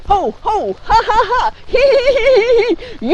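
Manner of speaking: laughter yoga leader laughing along. Shown as a demonstration. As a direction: lead a laughter yoga chant. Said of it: "Laughter yoga style".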